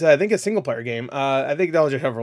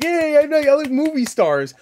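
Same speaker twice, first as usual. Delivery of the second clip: much higher and louder, a giddy fan; mock fan squeal; 13 semitones higher, 6 dB louder than usual. Mocking a viewer excited about movie stars, giddy higher squeal. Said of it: "You're like".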